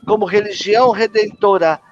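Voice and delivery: measured, solemn creed recitation; recited creed. Acted. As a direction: recite each belief as a formal prayer. Recita o credo da Umbanda. (credo recitado com solenidade)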